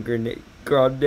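hammed-up yell at a screen; mock yelling. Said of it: "Me just yelling".

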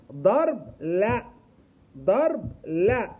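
put-on firm loud slow command to a child. Shown as a demonstration. A therapist firmly tells a hitting child no, loud and slow. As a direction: say it firmly and loudly to stop the hitting. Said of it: "واقول له بصوت عالي".

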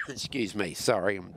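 clearing a tickly throat; throat catching after coughing. Real, not acted. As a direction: speak through a scratchy throat. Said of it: "choking to death here".

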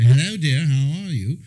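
lightly hammed British husband greeting his wife; a touch of British radio-man accent; put-on British accent. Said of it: "I was just British all the time".

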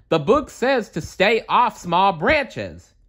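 high nephew shouting, slow; shouting warning. A narrator's reading. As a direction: call the rule out anxiously. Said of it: "Dewey shouted".

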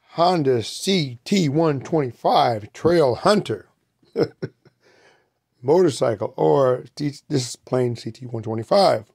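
talking while chewing gum. Real, not acted. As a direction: gum in the mouth while speaking. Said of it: "I have gum in my mouth".

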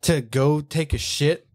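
imitated instructor, stunned and drawing the words out; frog voice gone. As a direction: spell it out slowly, incredulous. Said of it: "he broke his frog voice".

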